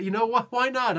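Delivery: rising, giddy give-up; excited. Real, not acted. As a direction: throw up your hands gleefully. Building resigned excitement.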